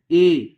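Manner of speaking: ए as a lengthened closed "ay"; ए slightly drawn out, closed vowel; long A sound. Shown as a demonstration. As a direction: hold ए a little, as in "day". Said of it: "थोड़ा लंबा उच्चारण करना है".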